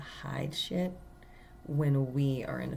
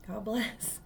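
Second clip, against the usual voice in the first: softly lifted, higher voice; sincere, unsarcastic blessing; 6 semitones higher, 4 dB quieter than usual. Retold or imitated. Guest answering the manager who yelled at her, sincere. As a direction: offer it gently, without any sarcasm. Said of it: "not in a sarcastic way".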